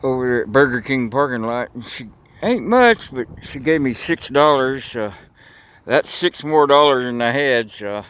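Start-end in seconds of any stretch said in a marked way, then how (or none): 2.4-3.1 lightly voiced woman, pitched higher; quoted native lady. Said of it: "this native lady says".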